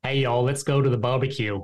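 put-on Australian trying on a Southern accent; amateur attempt at Southern American accent; imitated Southern accent. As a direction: copy a Southern US accent, a bit uncertainly. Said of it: "you say this in my accent".

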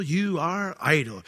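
slow scornful repeat. Acted. Pharaoh repeating his insult, slow and scornful. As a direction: lean on "you are idle" slowly.

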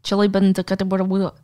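mock Kiwi babble; New Zealand accent. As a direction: caricature a New Zealand accent trailing into nonsense. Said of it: "they're speaking".

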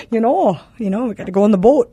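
folksy Wisconsin boater; Wisconsin accent. Acted. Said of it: "Wisconsin accent".

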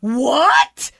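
rising, incredulous question; retold shock, voice swinging up; disbelieving what. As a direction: react as if you can't believe it. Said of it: "So I go".

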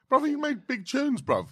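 very high, slow excited shout-out; big him up with high excitement; hyped praise. Retold or imitated. Hyping up Steve-O's old tunes, very high and slow. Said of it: "yeah, yeah, yeah".

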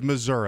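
"Missouri" ending in UH, not EE; hick Missouri. Retold or imitated. Host repeats the mocked regional version, UH-ending pronunciation. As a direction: say "Missouri" as "Mi-ZUR-uh". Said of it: "that's who says Missouri".

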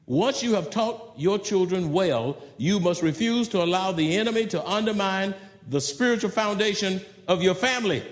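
said again at full voice; fuller repeat. Shown as a demonstration. Preacher repeating to fathers, fuller voice. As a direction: restate it plainly and firmly. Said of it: "I say it again".

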